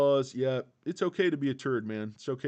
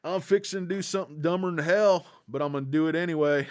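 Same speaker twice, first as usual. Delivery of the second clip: movie cowboy line; 5 semitones higher, 7 dB louder, faster than usual. Retold or imitated. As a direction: ham up the reckless cowboy's answer. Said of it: "He's like".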